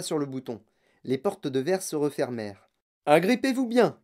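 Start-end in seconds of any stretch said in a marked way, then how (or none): 3.1-4.0 high, urgent call; raised-voice order to hold on; shouted warning. A narrator's reading. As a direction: cry out a command. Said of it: "cria monsieur Wonka".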